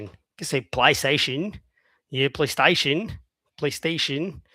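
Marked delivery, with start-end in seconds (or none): 0.7-1.6 PlayStation with "play" widened to "ply"; different accent. Shown as a demonstration. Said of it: "PlayStation has different accents". 2.3-3.2 PlayStation with "stay" widened to "sty"; different accent. Shown as a demonstration. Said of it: "PlayStation has different accents".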